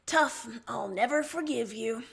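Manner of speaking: a touch of fake grudge; mock huffy. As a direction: pretend to sulk, not meaning it. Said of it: "You lie".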